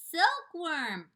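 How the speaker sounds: loud high cry of the answer; cried out. Acted. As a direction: call it out eagerly. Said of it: "cried the old green grasshopper".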